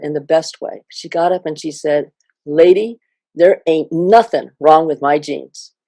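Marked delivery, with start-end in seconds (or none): 2.4-5.7 a lightly voiced defiant young lady, slow and firm; imitating the student. Student tells the scientist off, lightly imitated, slow. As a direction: give her words their weight, the way she said it. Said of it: "I'm gonna say it the way she said it".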